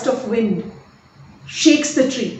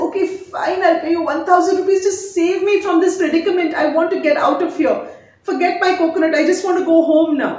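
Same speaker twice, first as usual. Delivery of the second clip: exasperated giving in; 4 semitones higher than usual. Acted. Miser gives up resignedly.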